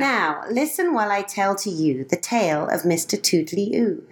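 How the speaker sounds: lilting rhymed storybook reading; reading verse aloud. Acted. Mother reading a rhyming poem to a friend, lilting. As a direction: read the couplets to a child with a gentle bounce.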